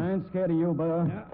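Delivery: defiant shout. Acted. Defying armed man.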